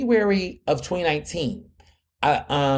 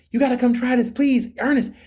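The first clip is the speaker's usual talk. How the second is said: high-pitched excited pleading; starstruck, hyped; 9 semitones higher than usual. Retold or imitated. Business owner begging him to try her food, starstruck. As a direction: imitate an eager fan begging, pitched well up. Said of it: "she was, like, starstruck, and she was hyped".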